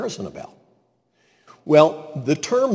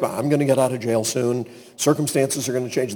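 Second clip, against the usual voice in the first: quick, softer self-talk; offhand positive thinking; 3 semitones lower, 3 dB quieter, faster than usual. Acted. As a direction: toss it off rapidly like passing self-talk. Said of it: "that's positive thinking".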